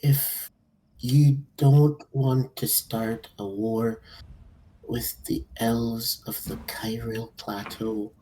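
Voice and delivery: slow, measured warning; slow threat. Acted. The elf warning the lord to leave her friends alone, slow. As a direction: spell out each word like a threat. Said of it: "She goes and she says".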